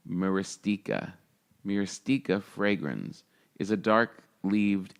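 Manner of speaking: soft, sleepy, drowsy reading voice; no-sleep airplane voice. Real, not acted. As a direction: read it like you haven't slept on a red-eye. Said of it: "I'm just enjoying my no-sleep airplane voice".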